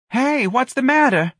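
high, slow offended whine; affronted, high-pitched protest. A narrator's reading. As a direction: ask as if wounded, drawn out and high. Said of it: "asked in an offended voice".

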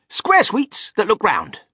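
loud, high, slow proclamation; crying out. A narrator's reading. Wonka presenting square sweets to the visitors, crying out. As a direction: announce it grandly, stretching the words. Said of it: "cried Mister Wonka".

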